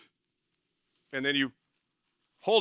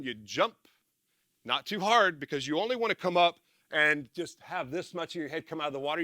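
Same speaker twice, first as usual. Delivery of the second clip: normal talking voice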